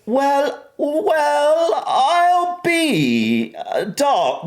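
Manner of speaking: high-pitched mock Southern lady; hammed-up high Southern belle accent; classy Southern accent. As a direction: attempt a well-off old-time Southern woman. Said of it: "like, a Southern accent".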